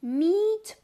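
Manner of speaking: high unvoiced whisper. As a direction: breathe the words out secretly. Whispering in game.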